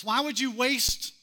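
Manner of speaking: mock critic's scolding; critics' indignation. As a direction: scold her like an offended critic. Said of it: "But the critics surface".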